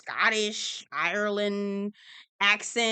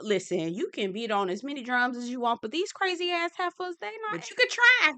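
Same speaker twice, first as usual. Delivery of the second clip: lightly voiced skeptic, climbing higher toward the end; 4 semitones higher than usual. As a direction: imitate someone's doubtful look in words, pitch rising. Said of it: "P K was looking like".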